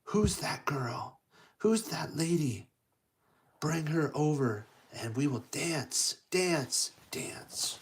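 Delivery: lightly voiced prince, hushed with awe; a touch of entranced wonder; smitten prince. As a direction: start breathless and slow, fade to a whisper. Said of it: "And he goes".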